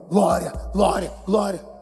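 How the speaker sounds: ordinary delivery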